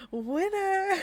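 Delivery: ringside winner call, loud and high; mock announcer shout. Narrator hamming a wrestling ref declaring the winner. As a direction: bellow it like a ref.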